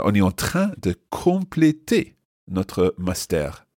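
"on est en train de compléter notre master en histoire générale" read slowly and clearly; slow model reading. Shown as a demonstration. Teacher repeats the dialogue line slowly for listeners. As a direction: spell the line out slowly for learners. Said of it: "teacher repeats the line slowly".

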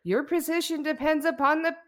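put-on loud, high, slow drunken orator; drunk speech. Vice president drunkenly ranting his inauguration speech, loud and slurry. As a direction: bellow it out like a plastered vice president. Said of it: "can I give you a little of the speech".

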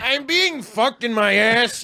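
mock moaning. Mock sex moans joke.

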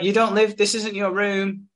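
high, insistent retold objection; mock protest. Woman tells drunk guy off, mock-insistent. Voiced dispute at hotel room.

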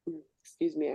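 talking through a burp. Real, not acted. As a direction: burp while saying excuse me. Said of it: "I'm burping now".

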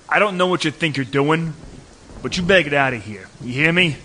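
loud, threatening warning; tough warning. Acted. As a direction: scare him off hard. Warning off the stranger.

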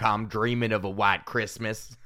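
mock Southern carol delivery; Southern accent. Shown as a demonstration. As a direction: recite the carol line as a Southerner. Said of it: "Christmas carols with a southern accent".

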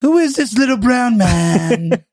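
slow, mocking Trump jeer; Trump impression. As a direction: sneer it like Trump. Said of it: "He's just gonna be like".

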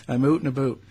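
Canadian oot and a boot, rounded oo vowels; mock Canadian out and about; Canadian accent. Shown as a demonstration. Host jokes about his accent again, Canadian oot and boot. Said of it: "my Canadian accent".

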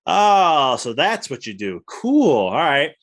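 bright, surprised "oh, cool", high on cool; a light, happy discovery, pitch jumping up; mock realization. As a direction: act like it just dawned on you. Realizing the right way to farm.

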